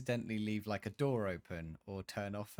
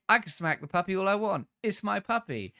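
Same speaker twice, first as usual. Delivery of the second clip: mock-defiant, louder and higher; defiant man; 8 semitones higher, 6 dB louder than usual. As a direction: brush off the kid in a hammed-up indignant tone. Man defending smacking his puppy.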